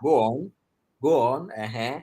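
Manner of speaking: mock impatience, prodding the caller to speak up; impatient brush-off. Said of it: "that kind of tone".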